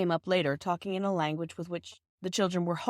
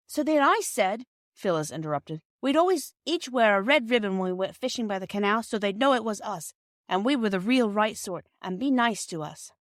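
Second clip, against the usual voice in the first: eager interruption; 4 semitones higher, 4 dB louder than usual. Acted. Phyllis proudly interrupts.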